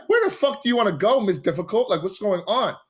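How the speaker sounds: high-pitched, mock-exasperated outburst; retold exasperation. Storyteller replays losing patience with his difficult date, exasperated.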